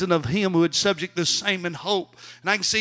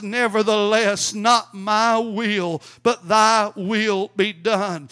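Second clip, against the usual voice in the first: slow, solemn surrendering cry; measured preacher's cry as Jesus; crying out in prayer; slower than usual. Acted. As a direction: draw out each phrase in earnest submission. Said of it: "and he cries".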